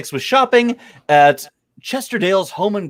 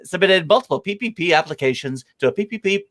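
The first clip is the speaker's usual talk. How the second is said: radio voice. Shown as a demonstration. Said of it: "I'm doing this one in radio voice".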